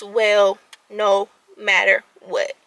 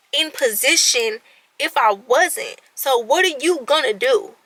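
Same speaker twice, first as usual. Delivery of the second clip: tough love pep talk; 4 semitones higher than usual. Retold or imitated. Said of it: "I had to stop myself".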